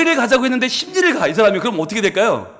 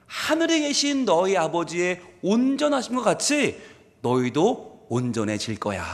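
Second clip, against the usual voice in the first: tender promise; 4 semitones lower, 6 dB quieter than usual. Acted. Quoting Jesus softly.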